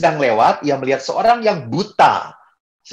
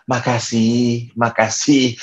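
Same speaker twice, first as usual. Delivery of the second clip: slow, drawn-out mock-polite thanks; resigned thanks; 3 semitones lower, slower than usual. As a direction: thank them for food you can't eat. Polite thanks for forbidden food.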